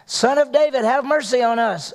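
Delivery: retold shout. Preacher voicing blind men calling to Jesus, mild pleading shout. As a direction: call out as if pleading from the roadside. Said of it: "They started shouting".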